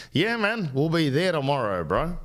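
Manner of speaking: pretend tradesman.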